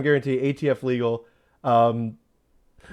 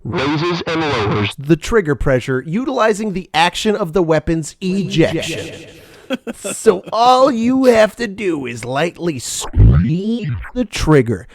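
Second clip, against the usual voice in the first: infomercial voice; 6 dB louder than usual. Acted. Ad read aloud.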